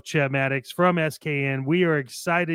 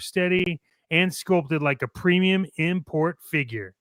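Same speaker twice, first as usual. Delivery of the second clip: upbeat commercial announcer voice; ad read. Acted. Co-host reads the fake energy drink ad, punchy announcer. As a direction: sell it like a radio spot.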